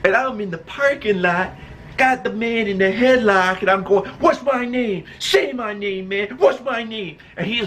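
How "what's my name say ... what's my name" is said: higher-pitched, insistent challenge; hammed-up taunt; mock menacing demand. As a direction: act out demanding submission from a man in a headlock. Reenacting demand while choking bully.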